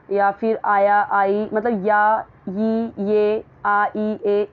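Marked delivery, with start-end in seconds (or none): 1.9-4.5 "या, यी, ये, आ, ई, ए" as separate vowel sounds; demonstrated vowel endings. Shown as a demonstration. Teacher showing students past-tense endings, "या, यी, ये, आ, ई, ए" sounded separately. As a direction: sound out "या, यी, ये" then bare "आ, ई, ए". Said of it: "इस तरीके का sound आता है".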